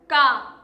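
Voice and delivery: का with a long open aa. Shown as a demonstration. Teacher contrasting का with क for children. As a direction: stretch का with the mouth wide open. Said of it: "दोनों के बोलने में अंतर है".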